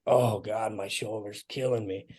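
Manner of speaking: groaning in pain. Retold or imitated. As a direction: moan it like a sore shoulder. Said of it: "grunting and moaning".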